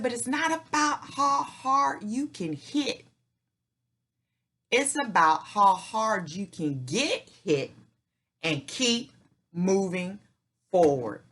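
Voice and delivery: half-hearted Rocky Balboa voice, drawn out; Rocky impression. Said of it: "do my Rocky impression".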